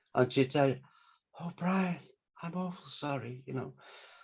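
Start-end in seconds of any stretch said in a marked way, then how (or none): 1.4-3.8 very soft, hushed, gentle voice. Speaker recalls Denise ringing to apologize about the publishers; imitating Denise's soft voice. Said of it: "she had the most beautiful soft voice".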